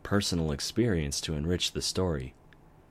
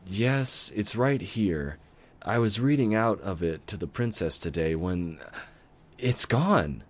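sudden alarm; 3 semitones higher than usual. Acted. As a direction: panic as the book is missing. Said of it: "she suddenly shrieked".

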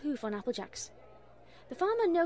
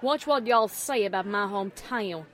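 understated shout, somewhat louder; angry shout; 3 semitones lower, 6 dB louder than usual. A narrator's reading. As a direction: warn them through gritted teeth. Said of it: "shouted Applejack, gritting her teeth".

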